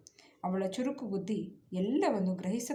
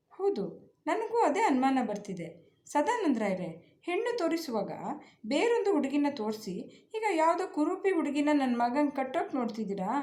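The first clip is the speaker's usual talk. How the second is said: high-pitched accusing outburst; raised angry voice; 6 semitones higher than usual. Acted. Groom's father accusing the bride's family, raised angry voice. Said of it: "ಏರು ದನಿಯಲ್ಲಿ ಕೂಗಾಡತೊಡಗಿದ್ರು".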